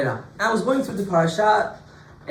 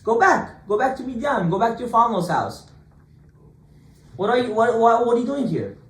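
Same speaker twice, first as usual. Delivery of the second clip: higher, louder, exasperated scolding; angry crowd; 6 semitones higher, 3 dB louder than usual. Retold or imitated. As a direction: chase him away, fed-up and shouting a bit. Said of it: "they were going crazy at him".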